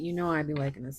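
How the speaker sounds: normal talking voice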